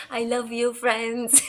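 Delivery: lightly voiced earnest influencer; mild mock guru warmth; Dave Hollis impression. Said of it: "in your best Dave Hollis impression".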